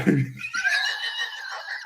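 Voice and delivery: high-pitched squealing laugh; a burst of scandalised high laughter; shrieking laugh. Real, not acted. Shocked at own remark again.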